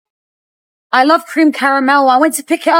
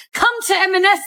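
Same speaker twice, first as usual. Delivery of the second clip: sarcastic mock quote; 6 semitones higher than usual. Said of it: "they said".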